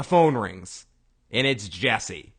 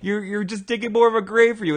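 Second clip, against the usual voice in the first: high, loud retort; mock exasperation; 9 semitones higher, 5 dB louder, faster than usual. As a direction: scold in a raised imitated voice. Acting out exasperated reply to Walter.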